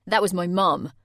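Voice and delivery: a stunned, loud realisation; horrified. A narrator's reading. Jay realising his mum heard, horrified. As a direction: let the horror sink in.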